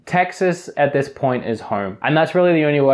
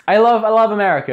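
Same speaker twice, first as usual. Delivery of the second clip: excited gush; 8 semitones higher, 4 dB louder, faster than usual. Real, not acted. Gushing outro about America.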